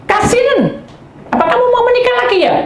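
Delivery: high, fast mocking husband voice. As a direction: squeal it like a whiny husband. Preacher voices complaining husband.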